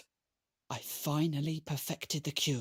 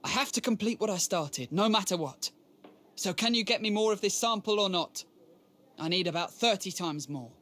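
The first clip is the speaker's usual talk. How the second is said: raised, urgent insistence; insistent; 4 semitones higher, 3 dB louder than usual. Acted. Scientist pressing a supplier for more samples, insistent. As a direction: push the demand, pitched up.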